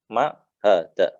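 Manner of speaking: slow "ma hadza" with drawn-out final a; slow question model. Shown as a demonstration. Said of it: "Apa ini?".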